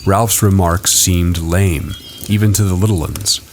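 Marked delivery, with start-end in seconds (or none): none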